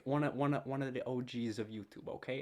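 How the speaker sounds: playful put-on Jersey accent. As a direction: lay on a New Jersey accent. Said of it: "I don't know why I'm doing a Jersey accent".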